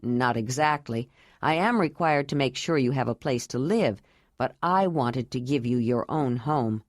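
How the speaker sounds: a grave, tender vow, voiced a bit low; Jondalar.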